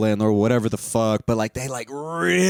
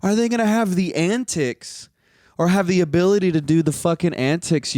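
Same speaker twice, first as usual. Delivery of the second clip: incredulous; 4 semitones higher than usual. Retold or imitated. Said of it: "I was like".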